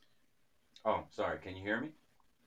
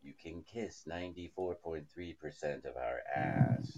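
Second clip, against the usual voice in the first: radio DJ parody; 4 semitones lower than usual. Retold or imitated. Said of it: "it's like".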